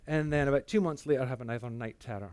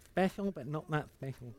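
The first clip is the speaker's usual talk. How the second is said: quoting God; 2 semitones higher, 3 dB quieter than usual. Retold or imitated. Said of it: "that quote".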